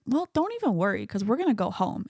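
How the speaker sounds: mock-casual comforting, pitch dropping after the start; unserious. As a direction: brush the worry off lightly. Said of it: "Thor is so unserious".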